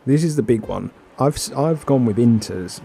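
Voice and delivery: loud nervous excitement; laughing, loud and keyed up; excited. Real, not acted. Race start, laughing nervously.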